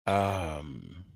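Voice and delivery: a tearful catch in a low, soft um; a real cry breaking through, swallowed quickly; holding back tears; fighting back a sob. Real, not acted. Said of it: "I'm not crying right now".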